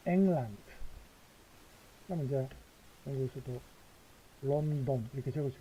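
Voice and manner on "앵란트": 앵란트 said clearly for the class to echo; model for repeating. Shown as a demonstration. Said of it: "자, 같이 앵란트".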